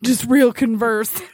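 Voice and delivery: "Converse" as a verb, stressed on VERSE; slow "Converse", second syllable strong. Shown as a demonstration. Trying the corrected profile line, "Converse" stressed on the second syllable. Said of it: "you've got the emphasis on the wrong syllable".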